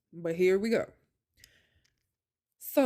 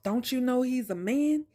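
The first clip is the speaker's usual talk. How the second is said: retold rant; 4 semitones higher than usual. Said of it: "he starts going off".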